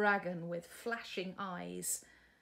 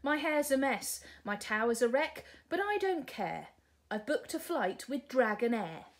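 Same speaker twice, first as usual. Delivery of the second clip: louder, higher, breezy princess voice; carefree princess; 4 semitones higher, 5 dB louder than usual. Acted. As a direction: shrug it all off. Sue's voice.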